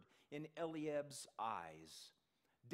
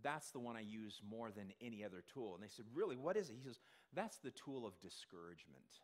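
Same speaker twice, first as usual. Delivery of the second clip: Satan; 6 semitones lower, 5 dB quieter than usual. Retold or imitated. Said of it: "Satan said".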